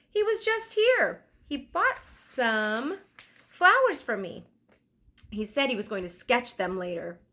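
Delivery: put-on a bright flower-selling girl who knows everyone. Flower girl tells of Leonardo.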